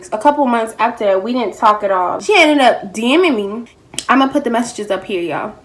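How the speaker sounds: talking between bites of food; words round a mouthful; eating while talking. Real, not acted. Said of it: "My food came".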